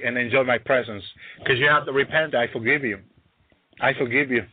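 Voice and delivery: acted God, low and reassuring; forgiving father. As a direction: grant forgiveness gently to an erring child. Acting God forgiving Adam and Eve.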